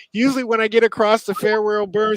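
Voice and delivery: high, loud retold quote; lively retelling. The musher describing the Farewell Burn, high and lively. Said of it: "she goes".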